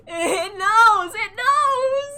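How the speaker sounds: high, loud cry of panic; shrieking. Real, not acted. Streamer realizing the game knows her, shrieking. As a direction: wail it out in shock.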